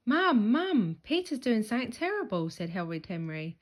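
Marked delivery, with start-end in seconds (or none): 0.1-2.5 loud, high, fast tattling call. A narrator's reading. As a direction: shout for mum to come. Henry tattling to Mum.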